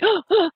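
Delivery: imitated gasp. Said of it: "gasping everywhere".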